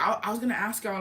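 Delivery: imitated hesitant stammer; lightly mocked stutter. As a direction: double the first word like a nervous guy. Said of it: "like, he's stuttering".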